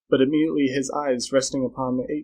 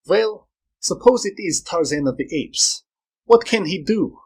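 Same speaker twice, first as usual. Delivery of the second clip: raised-pitch, challenging man's voice; dismissive Carl; 6 semitones higher, 4 dB louder than usual. Acted. Man doubting Flora's fear of Tarzan, dismissive. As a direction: challenge her, getting louder by the end.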